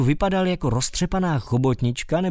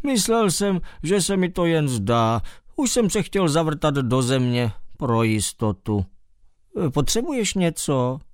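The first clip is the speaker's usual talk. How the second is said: mole's voice; 3 semitones higher than usual. Acted. Mole character voice.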